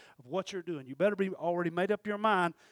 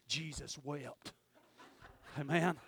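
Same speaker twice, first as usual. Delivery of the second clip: slow, soft recital of a short verse; measured recitation; 4 semitones lower, 6 dB quieter, slower than usual. Retold or imitated. Preacher recalling his one memorized verse, measured recitation. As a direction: say it slowly and low, each word given room.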